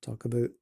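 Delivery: "about" said as "aboot", with an oo vowel; Canadian "aboot". Shown as a demonstration. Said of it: "how do they say that".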